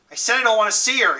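insist, pushing the voice up; rising voice. A narrator's reading. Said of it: "His voice was rising".

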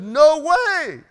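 loud refusal that slows and fades; Peter refusing. Acted. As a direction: refuse firmly, then trail off slowly. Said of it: "But Peter said".

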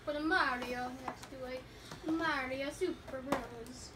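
slow, lightly voiced Italian accent; a hint of a mock Italian accent. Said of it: "You trying to be Italian?".

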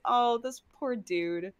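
stretched, fond "oh, poor thing"; amused pity. Acted. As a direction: coo with mock pity. Pitying the character.

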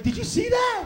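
loud, high shout of disbelief; amazed shout. Retold or imitated. Dad amazed at a kid bouncing off his neck, amazed shout. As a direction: yell it out, astonished. Acting out amazed reaction to fall.

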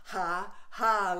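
forced ha ha, the last one loud; staged laughter-yoga ha ha ha; fake laughing. Shown as a demonstration. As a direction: laugh on cue with a big final ha. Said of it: "boom shaka laka laughter".

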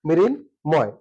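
মৃন then ময়, each cut off; two closed syllables. Shown as a demonstration. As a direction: say "mrin... moy" as two beats. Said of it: "দুটি বদ্ধাক্ষর". (দুই বদ্ধাক্ষরে "মৃন্... ময়্")

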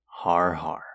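breathy whispered har har, dry and unimpressed; mock the joke with a flat, whispered laugh; deadpan whispered fake laugh; sarcastic mock laugh. Sarcastic reply to listener's joke.

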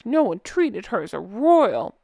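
a hint of a sulky toddler pout; lightly pouting, like a whiny little kid; pouty baby voice. Shown as a demonstration. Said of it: "So my pouty baby voice".

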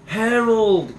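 high, loud call of the dog's name; boy calling his dog in delight; cried out. Acted. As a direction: burst out with it. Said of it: "cried Toby".

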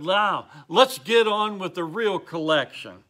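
lightly acted heckler calling out; mild retold shout. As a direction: imitate an impatient shout without really yelling. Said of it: "now shouted".

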